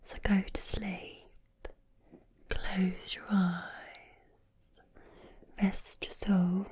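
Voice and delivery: half-whispered Birmingham accent; Brummie accent. Shown as a demonstration. Creator imitating Birmingham colleague to relax listeners, Brummie accent. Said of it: "like a Brummie accent".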